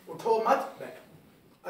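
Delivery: उठो मत बैठो slow and linked, no stop after उठो; joined rereading. Shown as a demonstration. Teacher rereads from behind, linking उठो मत slowly. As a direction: go back and link उठो to मत, drawn out. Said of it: "पीछे से मिला के फिर दोबारा पढ़ूँ".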